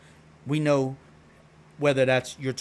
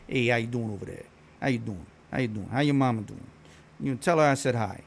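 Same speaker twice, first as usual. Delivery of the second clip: lightly voiced South Philly Italian greeting; South Philly Italian accent; 2 semitones lower than usual. South Philly Italian greeting someone over there, South Philly Italian accent. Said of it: "South Philly Italians, they talk like that".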